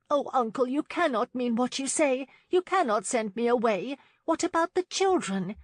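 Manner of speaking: crying out. A narrator's reading. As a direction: beg him not to send her away. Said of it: "Lauren cried".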